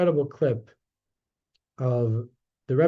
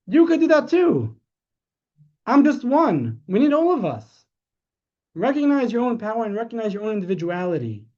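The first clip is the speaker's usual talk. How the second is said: impassioned preaching; 6 semitones higher than usual. Retold or imitated. Rebbe telling the people they are needed, impassioned high cry. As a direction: preach it at full fervour.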